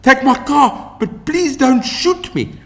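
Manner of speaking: high, loud pleading cry; terrified plea. A narrator's reading. Woman begging the gunman to spare her, high terrified plea. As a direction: beg for your life. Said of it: "I yelled".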